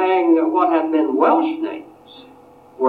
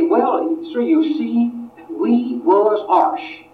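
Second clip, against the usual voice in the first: Appalachian dialect; 8 semitones higher, slower than usual. Retold or imitated. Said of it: "he might still speak the Appalachian dialect".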